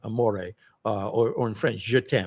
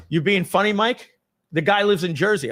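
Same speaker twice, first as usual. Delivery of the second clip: higher, sharp sarcastic retort; irritated boss; 7 semitones higher, 4 dB louder than usual. Retold or imitated. Boss scolding Mike over the memo, irritated and higher. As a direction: needle him with disbelief.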